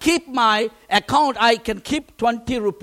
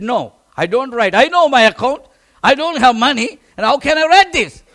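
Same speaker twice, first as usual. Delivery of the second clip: firm protest; 7 dB louder than usual. Retold or imitated. Arguing with his friend.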